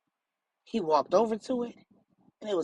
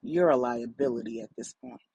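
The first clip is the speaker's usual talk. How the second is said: menacing man, lower voice; 8 semitones lower than usual. A narrator's reading. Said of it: "The man said".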